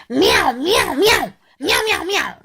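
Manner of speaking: high, quick chorus of meows; cat meows. Acted. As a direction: mew away like a gang of cats. Imitating angry cats meowing.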